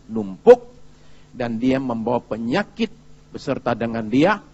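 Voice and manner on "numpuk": sudden loud. Shown as a demonstration. Anger piling up.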